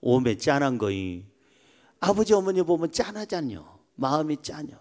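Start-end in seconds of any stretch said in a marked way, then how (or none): 0.0-1.2 lower-pitched Jeolla dialect lament. Shown as a demonstration. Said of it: "전라도 말로".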